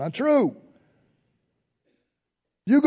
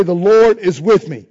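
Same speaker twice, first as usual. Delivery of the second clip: louder each time, leading the crowd; loud declaration; 6 dB louder, slower than usual. Shown as a demonstration. Preacher leading congregation in chant, loud declaration. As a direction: call it out for all to repeat.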